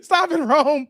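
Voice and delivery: mock scolding. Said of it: "Rome says".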